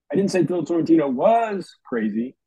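"was" pressed down; stress on was. Shown as a demonstration. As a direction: lean on the word "was". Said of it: "Each sentence meant something different".

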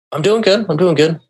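high-pitched, retold show of being fine; putting a face on. Confused young man holding it off to his friend, putting a face on. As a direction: insist you're fine, pitched well up. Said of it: "putting a face on, holding it off".

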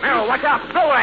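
high, urgent yelling; frantic shout. Acted. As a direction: yell a warning. Shouting in the struggle.

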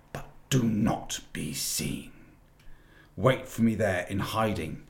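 imperious witch giving orders; a hint of a ruthless queen; cold witch queen. Witch gives orders to the wolf.

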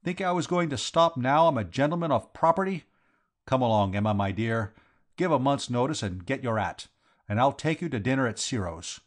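lightly voiced Cockney, triumphant; Vowles, cocky defiance. Vowles inviting his sweetheart to dinner, cocky. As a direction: boast as a newly moneyed man.

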